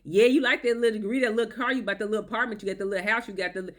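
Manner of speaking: condescending mock tone; belittling. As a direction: talk down to her achievements. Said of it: "little, little belittlement".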